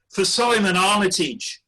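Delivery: lightly voiced pub compere bigging up the act; a hint of an open mic host; compere introduction. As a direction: announce the name like a compere. Compere announces the next act.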